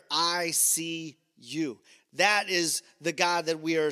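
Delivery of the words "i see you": slow tender. Retold or imitated. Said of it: "revealing to her".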